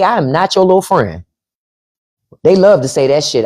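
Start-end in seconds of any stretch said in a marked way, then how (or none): 0.0-1.2 lightly voiced stern parent, pitch lifted; higher, mildly mocking parental reprimand; imitated parent scolding. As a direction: mimic a parent putting a child in place. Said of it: "what our parents used to say".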